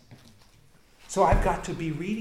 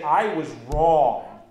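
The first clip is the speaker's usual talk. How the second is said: "I was wrong" dragged out very slowly and loud; slow hard admission; 9 dB louder, much slower than usual. Shown as a demonstration. Pastor showing how hard admitting "I was wrong" is, slow and heavy. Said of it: "But to actually say".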